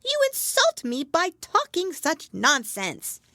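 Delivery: high, loud, slow indignation; huffy, drawn-out mouse scolding; offended mouse. A narrator's reading. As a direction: spell out the insult in a high mouse voice.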